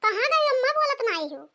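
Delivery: loud, high calls for mother across the house; calling out. Acted. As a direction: call out to her mother, worried and whiny. Daughter searching for her mother. (बेटी का अम्मा को ज़ोर से पुकारना)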